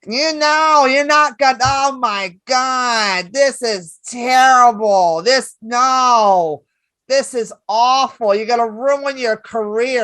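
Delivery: lightly voiced older woman, appalled; Mitzi impression. Mitzi warning Dice off the album, lightly voiced. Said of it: "That's how Mitzi talked".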